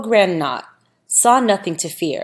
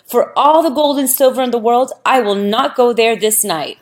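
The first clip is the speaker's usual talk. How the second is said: frightened refusal; 4 semitones higher, 4 dB louder than usual. Acted. We'ish refusing to return to grove.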